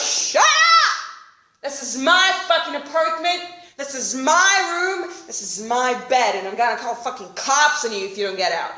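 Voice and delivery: loud, indignant claims it's his home; loud, possessive shout, leaning on my; angry drunk stranger. Retold or imitated. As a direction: shout him down. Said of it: "And the guy goes".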